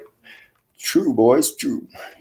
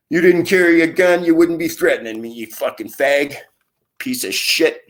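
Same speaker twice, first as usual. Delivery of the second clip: real anger; 6 semitones higher than usual. Real, not acted. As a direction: shout it at him, real fury. Angry rant at neighbour.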